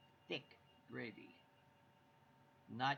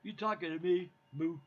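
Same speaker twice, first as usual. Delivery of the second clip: higher, much louder tough-guy New York moo; New York tough-guy cow; 5 semitones higher, 9 dB louder than usual. Retold or imitated. Husband topping wife's joke as a New York cow. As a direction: pick a fight like a movie gangster. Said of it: "New Yorker cow".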